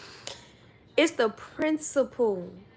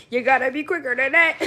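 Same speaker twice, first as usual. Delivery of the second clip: louder, laughing through it; laughing taunt; 6 dB louder, faster than usual. Acted. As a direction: tease them while cracking up.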